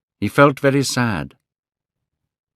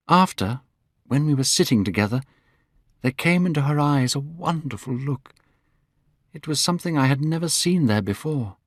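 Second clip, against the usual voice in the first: Dorian voiced higher, eager and glowing; young Dorian Gray; 4 semitones higher than usual. Dorian telling his friends he is in love, voiced higher. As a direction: lift the voice for a young man in love.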